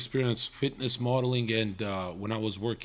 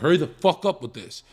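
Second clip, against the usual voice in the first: loud, impatient demand at the set; aggressive snap; 4 semitones higher, 7 dB louder than usual. Retold or imitated. Young model to the casting crew, loud and impatient. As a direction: bark it like an agitated coke kid. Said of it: "I was a very aggressive coke kid".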